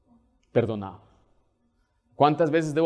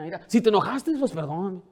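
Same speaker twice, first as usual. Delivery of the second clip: grudging apology; 4 semitones higher than usual. Retold or imitated. Imitating insincere apology.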